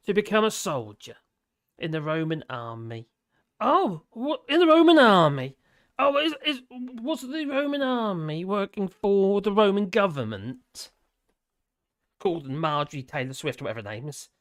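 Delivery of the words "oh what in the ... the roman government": mock surprise. Mock-surprised echo of own reading.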